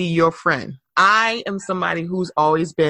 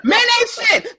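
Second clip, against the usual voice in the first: laughing; 13 semitones higher than usual. Real, not acted. Laughing after Odell talk.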